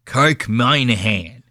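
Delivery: slow "Minihane" with its first syllable as "moin"; Boston-style pronunciation. Retold or imitated. Host mocking the Boston boys, "Minihane" said Boston-style. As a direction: say "Minihane" drawn out as MINE-a-han. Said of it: "they pronounce it the fucking cra".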